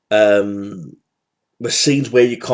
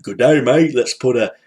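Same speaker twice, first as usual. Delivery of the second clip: put-on Australian accent; 3 semitones higher than usual. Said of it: "he knows an, an Austrian accent".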